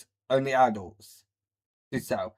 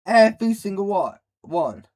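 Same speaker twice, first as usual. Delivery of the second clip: louder, faster, fed up; exasperated outburst; 5 semitones higher, 3 dB louder than usual. Real, not acted. Reactor ranting at the video, exasperated. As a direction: blurt it out in disbelief. Ranting about girl crying.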